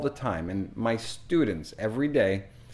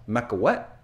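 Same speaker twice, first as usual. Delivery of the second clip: "Mac what?" whispered in confusion; puzzled whisper. Retold or imitated. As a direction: breathe it out, baffled. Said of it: "puzzled whisper".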